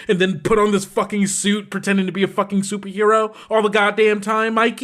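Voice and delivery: mildly heated, indignant rant; angry rant. Acted. Nash berating Mikey for faking death, indignant rant. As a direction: pile up accusations with irritated sarcasm. Nash rants at returned friend.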